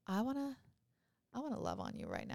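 mock lovestruck softness; acted swooning. Swooning over Spanish-speaking man when mad.

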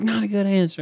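mock her reply in a high voice; high mocking quote of his girlfriend. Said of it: "She's like".

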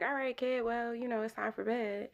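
gentle bedtime nudge. Retold or imitated. Mother easing child to bed.

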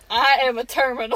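lightly put-on Southern lady accent. Friend asking for her Southern lady, playful Southern lady accent. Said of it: "do your Southern lady one".

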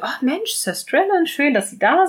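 Cora lightly voiced, gushing with surprise; a touch of glad surprise at a guest; pleasantly surprised. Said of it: "ganz freudig überrascht und sagt".

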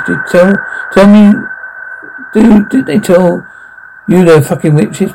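high, frantic question; stammering in panic; panicked disbelief. Acted. Panicked question about witches.

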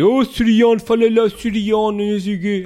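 mocking taunt. Someone maliciously asking Soriano to speak, loud high mock taunt. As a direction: taunt him to talk funny. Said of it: "a pedir isto com malícia".

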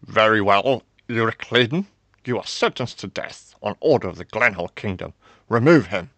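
loud, commanding royal decree; stern sentencing. A narrator's reading. King sentences prisoner to death, loud and stern. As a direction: pronounce judgement to the whole hall.

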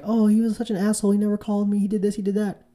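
a hint of a woman venting about an ex; mock complaining woman. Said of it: "she'll be like".

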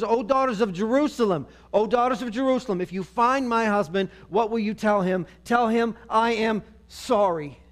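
acted appeal, pressing and heartfelt; urgent summons. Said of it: "she summons for the daughters".

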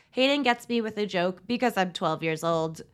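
a hint of a put-on youthful Coolidge voice; Gabby. Podcaster quoting Gabby's one-liner, lightly imitated. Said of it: "Was that a good Gabby impression?".

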